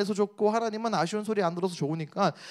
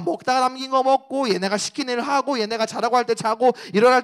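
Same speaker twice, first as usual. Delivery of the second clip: whiny grumbling crowd, pitch raised; grumbling complaint; 4 semitones higher, 4 dB louder than usual. Retold or imitated. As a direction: complain like ungrateful people. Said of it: "막 이렇게 불평, 불만을 갖는 거예요". (불평 불만 가득한 목소리)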